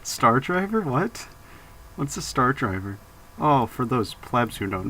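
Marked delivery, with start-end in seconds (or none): 0.0-3.0 mock surprise. Feigned surprise at the name.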